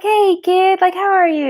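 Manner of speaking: imitating an uncle greeting a kid; affectionate greeting to a kid. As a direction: greet a young relative fondly. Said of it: "you'd be like".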